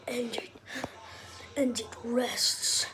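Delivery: slow hushed wildlife narration; nature documentary. Pretend. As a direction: narrate slowly like a nature show.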